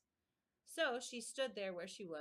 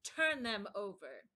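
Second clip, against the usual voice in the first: angry command; 7 dB louder, slower than usual. A narrator's reading. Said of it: "The queen turned angrily away".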